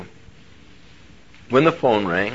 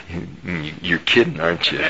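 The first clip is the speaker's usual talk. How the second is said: laughing disbelief; 3 semitones lower than usual. Retold or imitated. Preacher retells answering God, laughing.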